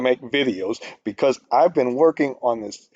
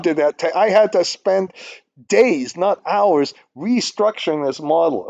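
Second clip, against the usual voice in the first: frustrated rant; 6 semitones higher than usual. Real, not acted. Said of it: "I went kind of nuts just now".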